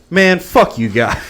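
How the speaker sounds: high, slow, strained cursing with laughter; mock-pained friend. Friend who swallowed all the wasabi, mock-pained curse. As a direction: imitate a burned victim cursing his pals.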